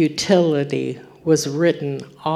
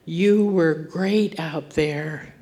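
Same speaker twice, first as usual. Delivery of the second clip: slow, gentle and a little softer; tender praise; 4 dB quieter, slower than usual. Retold or imitated. Father comforting his boy off the field, slow and tender. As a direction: let each word settle slowly to reassure.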